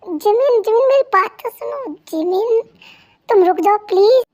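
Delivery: pleading call. Acted. Husband calling after upset wife.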